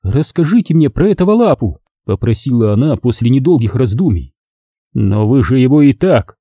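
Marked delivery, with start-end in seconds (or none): 0.0-1.8 put-on insistent older woman. Leonora asks. 4.9-6.4 angry. Acted. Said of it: "сердито начал я".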